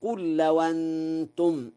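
لو أنتم run together as "lawantum"; Warsh hamza transfer. Shown as a demonstration. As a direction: drop the hamza of أنتم, its vowel carried onto the waw. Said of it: "النقل، فيقرأ هكذا".

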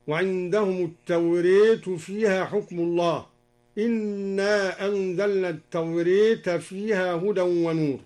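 التوريت said at-tawrēt, the alif leaning to e; التوراة بالإمالة; tawrat with imala. Shown as a demonstration. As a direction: bend the final a of التوريت toward e. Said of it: "بإمالة ألف التوراة".

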